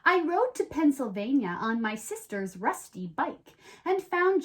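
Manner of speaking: storybook read-aloud, lively and even; reading to children. Acted. Host reads the rhyming book to young viewers, in a storybook voice. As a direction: tell it like a bedtime rhyme.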